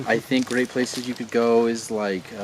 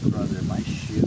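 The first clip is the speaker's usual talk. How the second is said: being tickled. Real, not acted. Wife tickling his foot.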